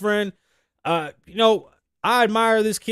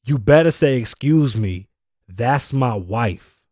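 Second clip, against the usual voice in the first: mock husband's warning; 7 semitones lower, 4 dB louder, slower than usual. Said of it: "when you say".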